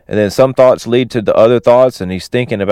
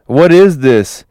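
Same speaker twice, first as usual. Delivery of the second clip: higher-pitched bewildered question; mock freak-out; 5 semitones higher, 4 dB louder than usual. Manny freaking out up in the tree, mock panic. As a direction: play a mild freak-out. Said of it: "freaking out".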